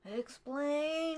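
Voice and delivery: high, harsh robotic Dalek shout. Retold or imitated. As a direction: bark it like a Dalek. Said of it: "like, yelling".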